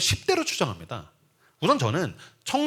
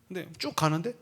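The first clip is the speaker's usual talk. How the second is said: usual speaking voice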